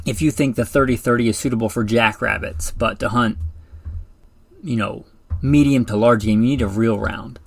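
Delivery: dry, sarcastic jab at light calibers; deadpan sarcasm, tongue in cheek. Acted. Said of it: "And I'm being sarcastic there".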